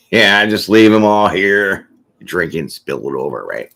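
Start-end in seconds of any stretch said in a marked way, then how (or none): 0.1-1.8 slurring drinker. Pretend.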